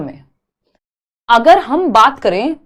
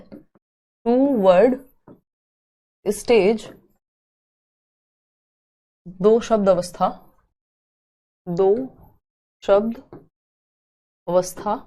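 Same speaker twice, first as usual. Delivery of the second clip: टू word stage, दो शब्द अवस्था spaced out word by word, softer; slow dictation; 2 semitones lower, 5 dB quieter, slower than usual. Shown as a demonstration. Teacher dictating the term for notes, slow and softer. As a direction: dictate it slowly so students can write.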